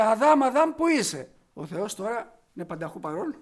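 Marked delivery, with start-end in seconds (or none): 0.0-1.3 loud call, searching for someone hiding; God calling for Adam, a loud call. Acted. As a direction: call out across the garden. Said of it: "Και φώναζε".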